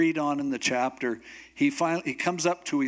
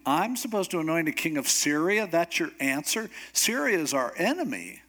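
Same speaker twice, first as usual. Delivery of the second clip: indignant disbelief; 3 semitones higher than usual. Acted. Acted objection to God's answer.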